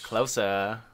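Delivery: low, drawn-out creepy beckoning; imitating a creepy movie villain. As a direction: draw it out, low and eerie. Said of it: "Very creepy, right?".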